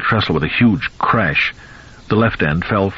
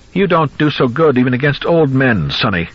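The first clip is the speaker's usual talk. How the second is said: high, loud gloating cry; old man gloats while kicking son-in-law; cracked excitement; 6 semitones higher, 3 dB louder than usual. Acted. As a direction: crow over him, voice cracking. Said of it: "Goldman cried with cracked excitement".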